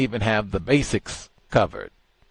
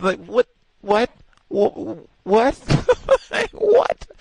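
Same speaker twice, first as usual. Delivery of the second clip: high, loud what-what breaking into a squeal of laughter; so stunned he cracks up; laughing disbelief; 12 semitones higher, 6 dB louder, slower than usual. Real, not acted. Incredulous laughing outburst.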